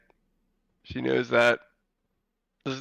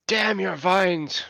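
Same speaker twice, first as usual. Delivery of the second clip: acted curse; 7 semitones higher, slower than usual. Game master voices attacker's curse.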